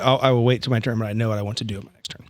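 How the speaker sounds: ordinary delivery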